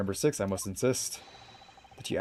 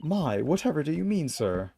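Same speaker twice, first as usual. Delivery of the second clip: put-on very old man; 8 semitones higher, 4 dB louder than usual. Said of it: "I was trying to do the old man voice".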